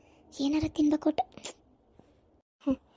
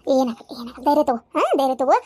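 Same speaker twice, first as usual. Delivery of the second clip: reassuring; 5 semitones lower than usual. Acted. Reassuring woman in labour.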